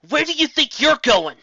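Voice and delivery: high, loud character voice questioning; teasing pegasus voice. Acted. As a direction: catch her sneaking off. Raindrops voiced challenging Trixie.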